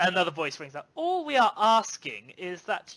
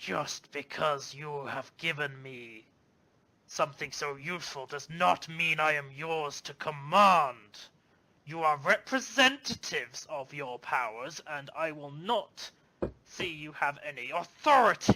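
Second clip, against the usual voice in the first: eerie, partly amplified, partly distorted voice; 4 semitones lower than usual. A character speaking in a scene others are listening to, disturbing distorted voice. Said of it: "a very disturbing sounding voice, as if like partly amplified slash partly distorted".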